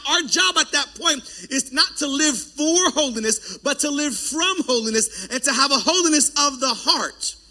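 ordinary talk, nothing marked

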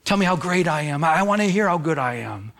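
mildly hammed-up pleading for praise; lightly imitated plea for attention; begging for attention. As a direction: fish for compliments, mock-needy. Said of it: "you're begging for attention".

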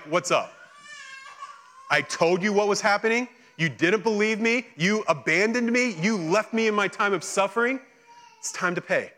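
acting out a reckoning, point by point; accusing. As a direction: call them out on their betrayal. Imagined Jesus confronting deserters.

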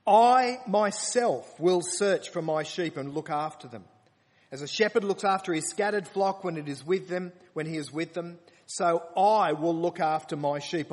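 loud, proclaiming scripture reading; preaching at full force. Acted. Preacher declaiming God's promise to the congregation, loud. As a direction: proclaim it like a solemn vow.

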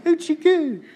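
put-on high cooing baby talk. Princess coos over the found baby, high baby talk. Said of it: "she went".

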